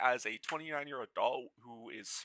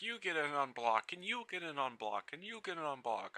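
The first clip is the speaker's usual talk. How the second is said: gleeful giveaway host; 7 semitones higher, 3 dB quieter than usual. Retold or imitated. Mock giveaway shout-out.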